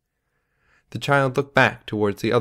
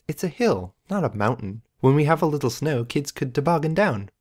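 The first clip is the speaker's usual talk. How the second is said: woman's voice; 5 semitones higher than usual. Acted. Female character's dialogue.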